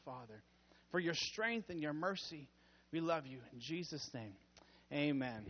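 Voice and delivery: hushed reverent closing prayer. Acted.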